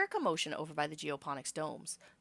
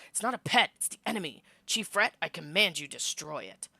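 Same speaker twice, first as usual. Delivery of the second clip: raised, commanding anger; angry command; 6 dB louder than usual. Acted. Lum orders Rhett to kill the creature, angrily. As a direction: order the chief to destroy it. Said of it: "Lum snarls".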